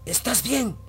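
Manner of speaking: acted calling out. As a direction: call as if waking someone. Mother calling to wake her son.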